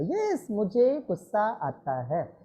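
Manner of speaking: gentle, patient affirmation; said lovingly. Shown as a demonstration. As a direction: calmly reassure yourself. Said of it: "बात प्यार से बोलो".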